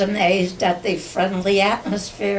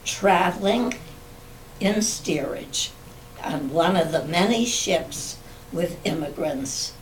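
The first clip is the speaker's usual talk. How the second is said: memoir reading. Acted. Reads written family memoir.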